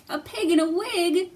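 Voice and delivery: high, loud mock surprise; mock amazement. Teacher acts amazed at the goose for children. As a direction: act amazed for the kids.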